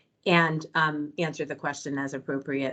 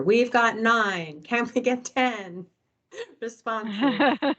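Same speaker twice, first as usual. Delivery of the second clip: slow, higher auctioneer call; 5 semitones higher, much slower than usual. Pretend. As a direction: play auctioneer calling for bids. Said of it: "I feel like an auctioneer".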